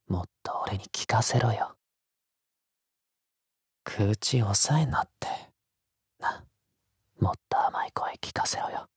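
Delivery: soft, coaxing hushed voice; whisper. Acted. Lover coaxing the listener not to hold back, whisper. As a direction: coax them in a whisper, close up.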